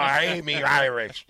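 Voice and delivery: put-on botched Irish accent slipping into pirate; Irish turned pirate. Host insisting on Scott Frost's roots, botched Irish accent. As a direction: attempt Irish, land on pirate. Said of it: "Oh, that was a pirate again".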